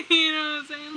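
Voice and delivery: laughing through the question. Real, not acted. Laughing while talking to the viewer. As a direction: giggle as you ask it.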